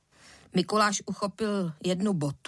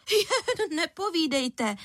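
scoffing; 8 semitones higher, slower than usual. A narrator's reading. Furious mother scoffs.

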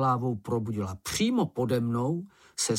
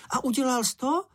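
much higher, keen little creature voice; Sniff's eager question; 14 semitones higher than usual. Acted. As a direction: lean in, dying to know.

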